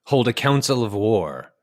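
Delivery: measured documentary storyteller; nature film narration. Acted. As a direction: narrate it like an old wildlife film. Recites the film's narration.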